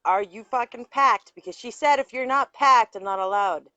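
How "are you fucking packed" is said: louder, pressing question; insistent repeat. Real, not acted. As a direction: demand an answer, louder.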